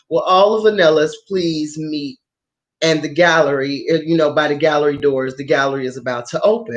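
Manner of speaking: a hint of a PA announcement; announcer woman. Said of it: "this woman comes on saying".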